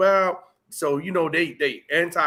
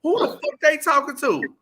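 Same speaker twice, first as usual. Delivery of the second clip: triggered outrage; 9 semitones higher than usual. Retold or imitated. Voicing his triggered self, indignant and much higher. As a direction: bristle at the disrespect. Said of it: "Now I'm like".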